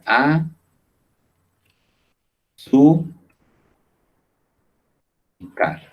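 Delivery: azúcar split slowly into a, su, car; syllabified azúcar. Shown as a demonstration. Teacher breaking azúcar into syllables for the class. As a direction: pause between each syllable of a, su, car. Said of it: "azúcar".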